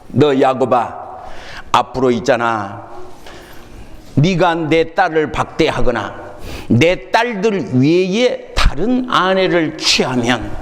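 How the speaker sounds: Laban warning. Acted. Laban warns Jacob.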